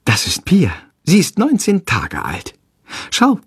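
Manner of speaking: mildly proud introduction; a touch of motherly pride. A narrator's reading. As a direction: show off the new baby. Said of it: "sagt stolz".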